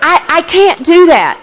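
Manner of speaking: laughing. Real, not acted. Laughing at her own cheerfulness.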